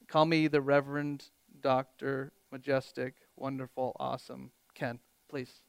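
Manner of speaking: grand title in a dropping, softening voice; tongue-in-cheek pomp, trailing down to a quiet finish; mock self-important.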